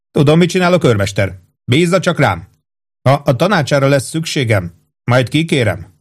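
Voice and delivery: a hint of a hearty captain; captain Holmes voice. Captain praising his old cook, lightly hearty.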